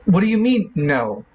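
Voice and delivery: mildly outraged comeback; indignant. Acted. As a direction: challenge the refusal, acted affront. Villain's proof is rejected.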